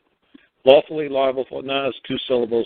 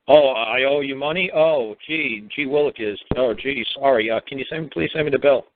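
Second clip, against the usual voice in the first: lightly acted clueless innocence; playing stupid. Shown as a demonstration. Caller acting clueless to a creditor about the bill, playing stupid. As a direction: mildly feign being puzzled and apologetic. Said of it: "if you just play stupid".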